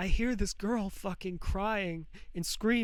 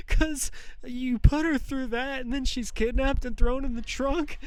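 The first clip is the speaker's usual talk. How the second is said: laughing through tears; 4 semitones higher than usual. Real, not acted. Telling a murdered girl's story to the viewers, laughing through tears. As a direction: voice pitched up, laughing and close to tears. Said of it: "I'm gonna try my best not to cry".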